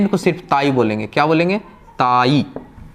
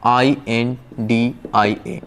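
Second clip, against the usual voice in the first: spelled out slowly; 4 semitones lower, much slower than usual. Shown as a demonstration. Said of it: "जैसे कि लिखेंगे इंडिया".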